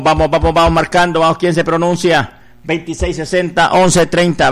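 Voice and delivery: insistent chanted appeal on a nearly level tone; rally the faithful, rattling off phone numbers in repetitive cadence; fundraising preacher's exhortation. Real, not acted. Preacher urging God's people to call in a voluntary offering, insistent chanted exhortation. Radio preacher rallies listeners for donations.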